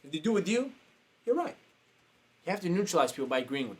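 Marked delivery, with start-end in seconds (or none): 0.0-1.6 softer, higher conciliatory voice; neutralizing, agreeable. Shown as a demonstration. Coach agreeing with two clashing people, soft and conciliatory. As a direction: placate both sides gently. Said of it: "you gotta come in as".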